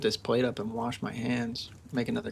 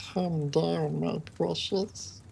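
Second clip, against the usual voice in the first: mild Gollum voice; 3 semitones higher, slower than usual. Pretend. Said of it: "doing the voice of that".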